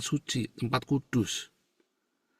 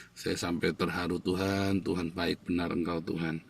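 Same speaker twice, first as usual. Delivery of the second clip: tender prayer; 5 semitones lower, 6 dB quieter than usual. Real, not acted. Tender aside to God.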